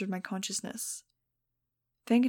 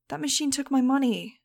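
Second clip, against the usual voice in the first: mock outrage; 5 semitones higher, 6 dB louder than usual. A narrator's reading. Max angry at slot machine.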